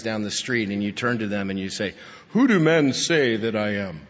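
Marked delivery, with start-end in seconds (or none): 2.3-4.0 puffed-up, self-important asking; arrogant question. Pretend. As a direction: ask it like you think you're a big deal. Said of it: "Think about how arrogant that would sound".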